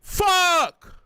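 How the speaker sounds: furious curse at the opponent; angry swearing. Real, not acted. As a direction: bark it out in real anger. Swearing at lost round.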